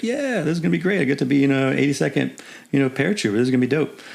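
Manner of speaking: picture your dream posting and gush about it; eager younger self. Retold or imitated. Young officer gushing over Fort Bragg orders, high excited voice. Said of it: "I was like".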